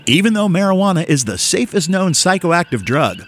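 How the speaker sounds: hammed-up public service announcer with big pitch swings; radio voice. Host reads a public service announcement to listeners in radio voice. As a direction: read it like an exaggerated radio PSA. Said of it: "I'm gonna do it in my radio voice".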